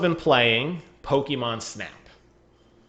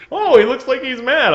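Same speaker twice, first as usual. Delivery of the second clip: higher and louder, amused professor; laughing, raised professor voice; mock professor voice; 11 semitones higher, 7 dB louder than usual. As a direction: ham up the game professor commenting on a photo. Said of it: "the professor's like".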